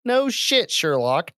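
high-pitched exasperated yell; mock yell. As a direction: yell it like it's painfully obvious. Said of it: "you said that way too loud".

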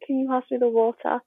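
"water" the English way, with no final r; English pronunciation. Retold or imitated. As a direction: say "water" in British English, ending in "-tuh". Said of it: "particularly English word".

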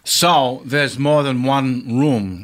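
lightly voiced actor impression, slow and halting; Christopher Walken. Impressionist questions the escape room host, light slow actor impression. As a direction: stretch the words slowly, celebrity-impression style. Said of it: "Christopher Walken's here".

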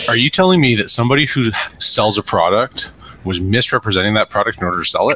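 dry mock disbelief; sarcastic. Real, not acted. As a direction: lay on the sarcasm. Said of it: "Do I detect a hint of sarcasm there?".

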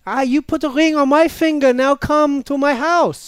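playing Giselle. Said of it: "do Giselle".

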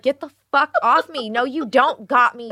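high, loud, indignant order; retold irritated protest. Wife to husband gripping her stomach, irritated protest.

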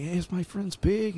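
high mock Hispanic accent. Passerby retold telling whose pig it is, mock Hispanic accent. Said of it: "Is that your Hispanic accent?".

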